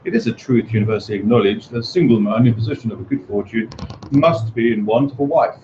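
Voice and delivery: put-on formal, old-fashioned Regency reading, slowed at the end; period English reading. Shown as a demonstration. Quoting the novel's opening in the old-fashioned style. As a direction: read it like a lady of the eighteen hundreds. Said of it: "the way that people spoke then, you would say".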